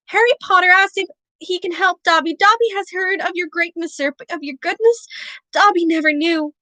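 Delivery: squeaky high house-elf cry; a tiny creature squealing with awe; high-pitched elf voice. A narrator's reading. House elf greeting Harry in awe, high-pitched squeak. Dobby's voice.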